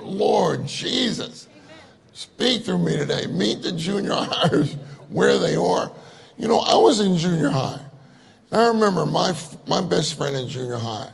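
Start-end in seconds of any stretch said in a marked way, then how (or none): 0.0-5.9 drawn-out, pleading call to the Lord; fervent prayer. Retold or imitated. Preacher recalls praying before serving junior highers, comically fervent plea. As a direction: re-enact a desperate prayer, half amused. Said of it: "I used to pray so much".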